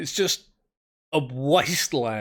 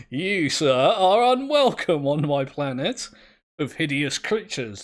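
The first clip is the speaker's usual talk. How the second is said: mock formal scorn; 5 dB louder than usual. Banishing a creature.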